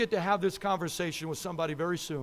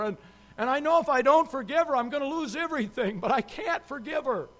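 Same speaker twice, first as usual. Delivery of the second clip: higher-pitched, emphatic imitation of a troubled husband; retold anguish; 5 semitones higher, 4 dB louder than usual. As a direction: plead helplessly, as a retold confession. Retells husband's anguished confession.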